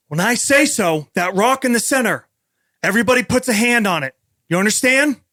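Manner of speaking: 2 a guide calling loudly to the group over the roar of the falls; 1 Rolo calling out. Acted. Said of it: "Rolo says".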